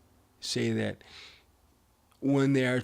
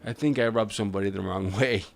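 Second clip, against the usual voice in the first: raised voice over rotor noise; yelling over helicopter; 4 dB louder than usual. Real, not acted. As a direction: talk louder over a loud helicopter. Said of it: "excuse the helicopter".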